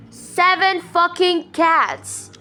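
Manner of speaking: slow, loud, furious repetition; outraged shout. Real, not acted. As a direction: spit out each word in disgust. Repeats it, even louder.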